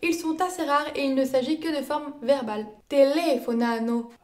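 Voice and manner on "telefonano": "Telefonano" with LE stressed; stress fourth from last. Shown as a demonstration. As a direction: hit LE in "Telefonano", let the rest fall away. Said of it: "accentués sur la quatrième syllabe". (« Telefonano » accentué sur LE)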